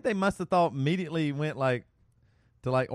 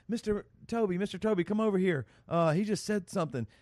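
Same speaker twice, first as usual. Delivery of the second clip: put-on higher-pitched child calling the teacher over; little girl tattling; 7 semitones higher than usual. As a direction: imitate a little girl telling on a classmate. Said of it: "And then she said".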